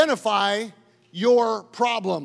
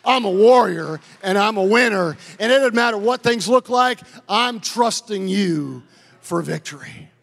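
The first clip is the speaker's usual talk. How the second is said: loud, confident prayer; bold declaration; 5 dB louder than usual. Shown as a demonstration. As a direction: declare it like a warrior. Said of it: "You need to begin to say".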